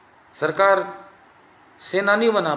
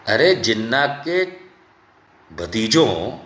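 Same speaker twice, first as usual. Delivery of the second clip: usual speaking voice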